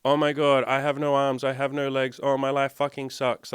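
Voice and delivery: mock sulky whinge; mock whiny complaint. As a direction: imitate a self-pitying complainer. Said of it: "be a little fucking bitch and go".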